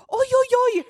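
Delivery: very high cooing "oh dear"; exaggerated high-pitched wail of sympathy; mock sympathy. Showing a fallen stranger she feels for them, mock sympathy. Acts out her own misguided sympathy.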